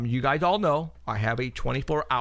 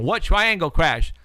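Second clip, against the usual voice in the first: slow, louder puzzled question; mock puzzled; 4 semitones higher, 5 dB louder, slower than usual. Imagining listeners who ask about the crash, a slow mock puzzled question. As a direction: voice the audience asking in disbelief. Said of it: "You guys are probably going".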